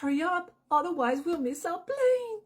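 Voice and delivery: hurried traveller. Acted. Model sentence in role.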